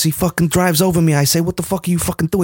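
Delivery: quick, sweary mock tough guy; De Niro. Podcaster as Alonso ranting about Lewis, De Niro impression. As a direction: play a ranting movie gangster, rattled off fast. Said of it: "doing faces like De Niro".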